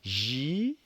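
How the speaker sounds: Gy-ro-fa split into three even syllables, rising; teacher breaking Gy-ro-fa into syllables; slowly, syllable by syllable. Shown as a demonstration. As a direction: take Gy-ro-fa slowly.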